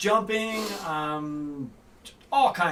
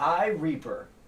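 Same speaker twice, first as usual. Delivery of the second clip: usual speaking voice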